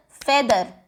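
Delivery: ordinary delivery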